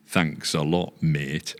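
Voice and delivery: put-on Yorkshire old boy; sarcastic thanks in Yorkshire accent. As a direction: imitate a grumbling Yorkshire husband. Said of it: "the old boy".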